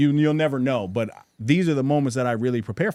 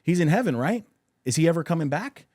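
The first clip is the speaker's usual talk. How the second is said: lightly voiced little girl, higher pitch; a hint of a child's questioning, pitched up; young daughter asking; 5 semitones higher, faster than usual. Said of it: "she asked, she's like".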